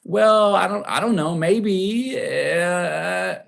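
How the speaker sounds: hammed-up dithering; mock hesitation. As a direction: play the kid who flinches. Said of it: "I wasn't there to go".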